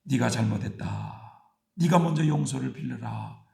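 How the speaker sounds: kindly. Retold or imitated. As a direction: correct her tenderly as a loving God. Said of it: "인자하게".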